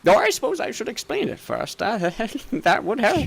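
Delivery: doddery shopkeeper, pleased. Acted. Shopkeeper presenting a belt to his gnome friend, pleased and scatterbrained. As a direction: present the find, then catch your own forgetfulness.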